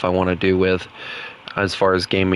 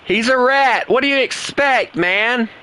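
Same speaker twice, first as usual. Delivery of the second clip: high-pitched, incredulous ribbing; mock exasperation; 11 semitones higher than usual. Real, not acted. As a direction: tease him like it's outrageous. Mocking a German-only opponent.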